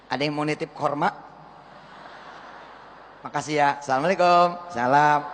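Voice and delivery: mock pompous announcer.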